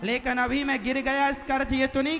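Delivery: loud, rousing sermon voice; fiery preaching. Acted. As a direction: preach it with full force.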